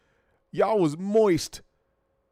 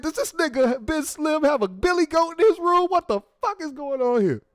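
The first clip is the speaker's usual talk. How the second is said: pissed-off dad; 11 semitones higher than usual. Retold or imitated. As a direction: yell at your son like a fed-up dad. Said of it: "Your dad was pissed".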